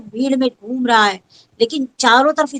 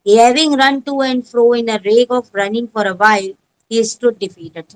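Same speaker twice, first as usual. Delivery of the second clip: very slow, every word set apart; teacher reads the story aloud to pupils, very slow; slow textbook reading; much slower than usual. Shown as a demonstration. Teacher reads English text.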